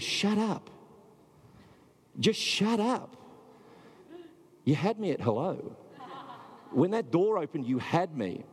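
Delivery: high, hushed voice with a catch and a laugh; high tender voice, half-laughing; Dorothy, tearful and tender. Retold or imitated. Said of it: "She says".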